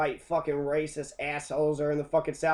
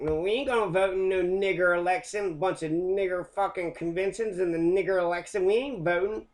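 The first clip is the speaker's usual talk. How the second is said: a bit higher, sneering redneck refusal; mock racist southerner; 3 semitones higher than usual. Mocking white southerners who boycotted the vote, sneering. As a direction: play a stubborn bigot refusing to vote.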